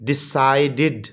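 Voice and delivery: डिसाइडेड slowly, with a separated "did"; ending pronounced id. Shown as a demonstration. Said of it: "इड पे ख़त्म होता है". (डिसाइडेड धीरे, आख़िर में साफ़ "इड")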